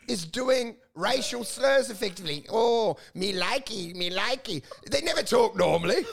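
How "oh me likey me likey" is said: slow put-on Chinese movie accent; caricatured Chinese accent, drawn out; mock Chinese accent. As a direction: imitate a stereotyped film Chinese accent. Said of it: "They get a Chinese accent".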